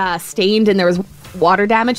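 fighting back hiccups mid-sentence; suppressing hiccups. Real, not acted. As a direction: hiccups held in while talking. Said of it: "Sorry, I have the hiccups this morning".

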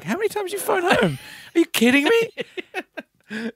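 high, slow outraged parent voice; angry dad over phone bill. Retold or imitated. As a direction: scold like a furious dad. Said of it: "he's like".

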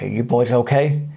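lightly voiced deep-voiced officer; a hint of a big, husky cop checking on the lads; deep husky policeman. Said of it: "very deep, husky voice".

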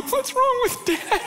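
put-on small kid voice wondering; kids worried. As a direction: imitate puzzled kids asking about dad. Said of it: "My kids are like".

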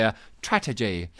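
mock-accented "strategy", last vowel stretched; imitating mispronunciation. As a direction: mimic "strategy" ending like "jay". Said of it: "Carla on the WhatsApp line says".

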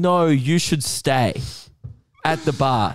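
slow, deliberate mimicked insistence; drawn-out, loaded retold invitation; pointed insistence. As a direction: imitate someone meaningfully urging you to stay. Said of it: "locking eyes with me and going".

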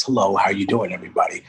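friendly, courteous greeting voice; polite regular voice. Shown as a demonstration. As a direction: sound pleasant and proper. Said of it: "And this is the regular voice".

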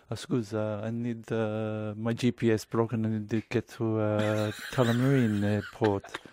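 put-on a light Italian accent, slow and hesitant; lightly voiced Italian stranger asking for directions. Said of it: "am I allowed to do an Italian accent?".

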